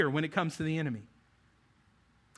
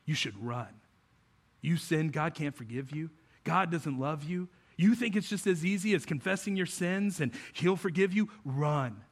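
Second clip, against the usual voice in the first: lightly voiced tempter, mostly hushed; the enemy. Enemy telling a believer to run, subdued accusing voice. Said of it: "The enemy would love to get on your level and go".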